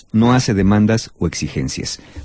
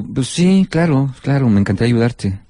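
grudging. Shown as a demonstration. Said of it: "El tono de voz va a determinar la intención".

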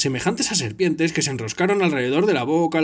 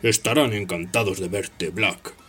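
Snape's voice; 7 semitones lower than usual. Acted. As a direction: savour every cruel word. Snape gloats to Black.

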